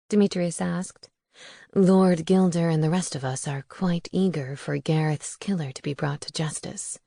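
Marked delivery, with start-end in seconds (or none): 1.7-7.0 a hint of a smooth vampire gentleman, lower; lightly lowered, courteous vampire voice; lightly voiced suave vampire.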